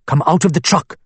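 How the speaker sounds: firmer, pressing guard's repeat; guard insisting the van driver get out. Acted. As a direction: push the order harder. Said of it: "he said more forcefully".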